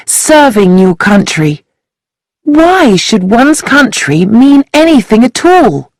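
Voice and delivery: lightly voiced angry girl railing at patriotism; bitter young woman. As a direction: intense girl's voice, mildly heated. Sheila voiced in story.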